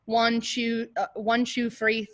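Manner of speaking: imitating an over-exaggerated British accent on the count; mock British counting. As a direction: count like a British music teacher, overdone. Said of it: "the most over-exaggerated".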